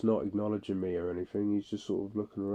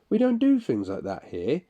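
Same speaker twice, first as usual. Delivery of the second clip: raised, louder indignant challenge; angry challenge; 5 semitones higher, 6 dB louder than usual. Retold or imitated. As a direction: confront him, pitched up and loud. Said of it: "lost my temper then".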